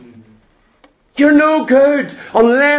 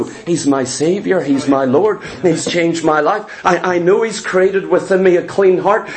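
mild tender praise; 5 semitones lower than usual. Retold or imitated. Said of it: "you go".

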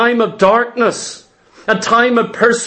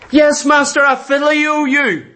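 higher, earnest disciple's reply; Peter answering; 5 semitones higher than usual. Acted. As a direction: answer your master eagerly. Peter voiced answering Jesus.

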